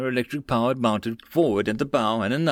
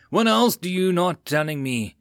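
higher-pitched heated demand; angry outburst; 6 semitones higher than usual. A narrator's reading. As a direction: demand an answer in a fury. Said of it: "reaction to the outburst".

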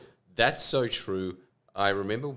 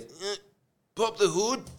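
much higher put-on voice for a blunt drug dealer; high, rough dealer voice; 12 semitones higher, 4 dB louder than usual. Stranger at the broken-down car, quoted in a high dealer voice. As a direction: ask it up high like a shady street guy. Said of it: "He goes".

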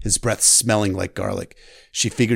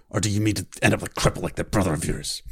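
gruff Hound; 2 semitones lower, faster than usual. Acted. Sandor voiced threatening Sansa.

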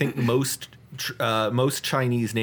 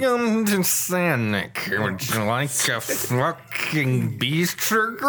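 drive-thru cashier; slower than usual. Pretend. Mock fast-food cashier.

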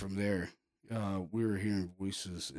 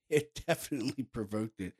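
chuckling through the words; amused chuckle. Real, not acted. Investigator recalling his provoking worked, amused chuckle. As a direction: let a small laugh lead into it.

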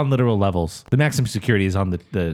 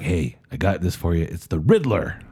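lightly voiced Batman; 5 semitones lower than usual. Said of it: "Is that his voice?".

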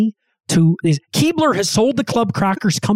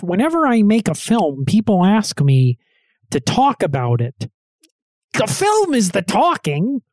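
David Lynch impression; 2 semitones higher than usual. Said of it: "the David Lynch quote".

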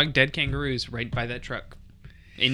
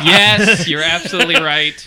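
excited; 5 semitones higher, 12 dB louder than usual. Real, not acted. Delighted loud agreement.

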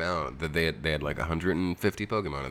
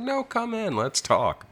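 Lyndon Johnson; slower than usual. Retold or imitated. Lyndon Johnson inviting people into the bathroom.

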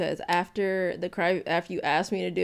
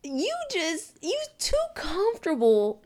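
high, giggling defence; laughing; 8 semitones higher than usual. Real, not acted. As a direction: laugh through the words. Laughs defending her view.

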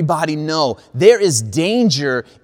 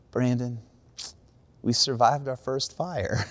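sweetly; 3 semitones lower, 6 dB quieter than usual. Retold or imitated. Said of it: "she looks at me so sweetly".

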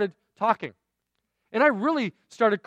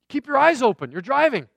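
louder, higher retold warning; quick caution to a driver, raised voice; playful mock alarm, punched up; 4 semitones higher, 5 dB louder than usual.

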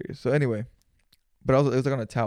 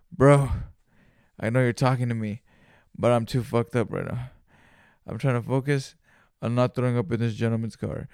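strained plea; 4 dB louder than usual. Retold or imitated. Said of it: "everything that I have in me to be like".

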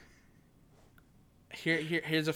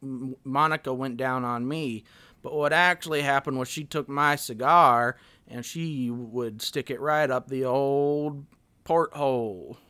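Bill Clinton impression; 5 dB louder than usual. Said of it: "Oh, Bill Clinton".

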